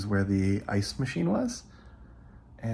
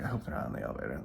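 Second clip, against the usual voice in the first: muttered dread; 11 semitones lower, 9 dB quieter, much faster than usual. Retold or imitated. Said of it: "I'm like".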